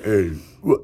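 ogre-like imitation of an American accent; lumbering, slow caricature of an American; mock American accent. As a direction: do a dumb hill-giant American accent. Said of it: "Why do we all sound like ogres?".

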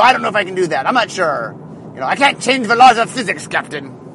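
badly faked Scottish engineer; hint of hammy Scottish accent; horrible Scottish accent. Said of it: "that's a horrible Scottish accent".

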